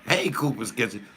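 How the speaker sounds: usual speaking voice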